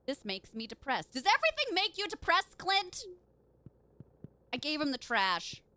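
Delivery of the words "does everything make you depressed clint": higher, louder teasing jab; mocking question. Teasing the villager Clint, mock-sympathetic. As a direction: needle him with mock sympathy.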